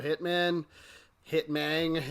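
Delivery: lightly done fake Cuban accent on Hitman; a hint of a hammed-up Cuban accent; bad fake Cuban accent. Mocking a rival in a bad fake Cuban accent. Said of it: "bad fake Cuban accent".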